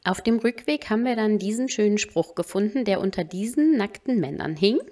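soft, even recap voice-over; quiet vlog voice-over; voice-over narration. Acted. Voice-over recap between live clips.

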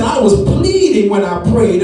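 heavy weight on "pleading"; stress on pleading. Retold or imitated. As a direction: stretch "pleading" like a plea. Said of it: "He said".

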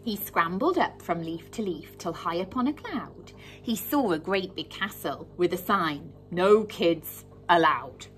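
put-on lively, rhythmic reading to children; story reading. A narrator's reading. Teacher reading a rhyming tale aloud to her class, animated. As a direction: read it like storytime for little ones.

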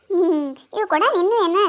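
blunt demand with a falling end; flat accusing ask; accusing question. Acted. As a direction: press her on whose pot it is. Asks who owns the pot.

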